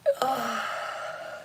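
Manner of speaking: long soft sigh while stretching. Real, not acted. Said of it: "I always have to stretch".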